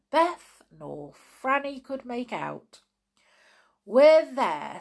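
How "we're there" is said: excited Moonface. Acted. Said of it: "said Moonface".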